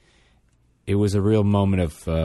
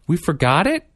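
put-on high, amazed child's question; squeaky little-kid disbelief; gasping kid; 10 semitones higher than usual. Mother imitating her son learning the book is at home, high voice.

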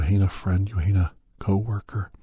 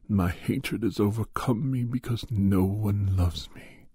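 sulky Grinch; 2 semitones lower than usual. Acted. Grinch tells Cat in the Hat nobody loves him, slow mope. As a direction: play the lonely Grinch, slow and sorry for himself. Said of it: "And the Grinch said".

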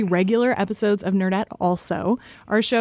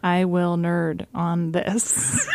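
laughing; 2 semitones lower, much slower than usual. Real, not acted. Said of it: "Try it".

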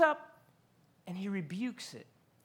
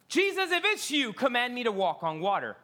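higher, louder eager call-out; 3 semitones higher, 4 dB louder than usual. Retold or imitated. Peter calling to Jesus from the boat, eager. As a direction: call out across the water eagerly. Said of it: "Peter's like".

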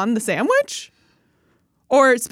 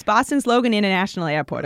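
dropped-r Boston accent, Logan Airport. Shown as a demonstration. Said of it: "you gotta park your case".

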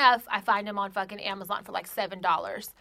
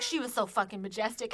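Napoleon Dynamite impression; 4 dB quieter than usual. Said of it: "'Cause he sounded like Napoleon Dynamite".

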